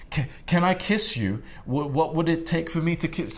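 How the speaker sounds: high, pleading nervous voice; hammed-up insecure guy asking; mock timid beta. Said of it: "what a lot of beta males do".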